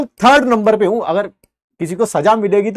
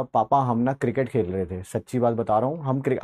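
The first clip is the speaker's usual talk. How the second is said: put-on innocent child excuse; 8 semitones lower, 8 dB quieter than usual. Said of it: "कह रहा".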